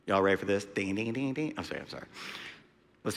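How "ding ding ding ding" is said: soft, low imitated bell dings; playful ding noises. Preacher readying the church for scripture, playful soft dinging. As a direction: quietly mimic a little bell.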